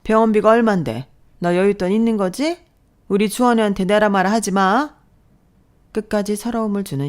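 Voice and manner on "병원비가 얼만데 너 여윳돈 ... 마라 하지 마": higher-pitched, contemptuous nagging; scolding mother-in-law. Acted. Mother-in-law belittling her son's wife, sneering. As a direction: sneer down at your daughter-in-law.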